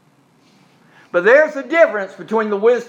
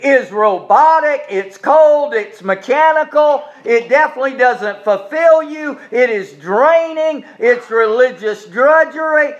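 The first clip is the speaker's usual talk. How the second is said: emphatic preaching; 2 semitones higher than usual. Real, not acted. Preacher pressing a list home.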